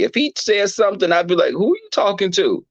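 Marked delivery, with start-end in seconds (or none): 1.5-2.7 snappy. Retold or imitated. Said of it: "and I was snappy".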